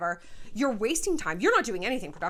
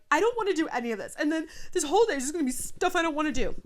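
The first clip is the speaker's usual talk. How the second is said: whiny complaint; 6 semitones higher, 4 dB louder, faster than usual. Retold or imitated. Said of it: "we're like".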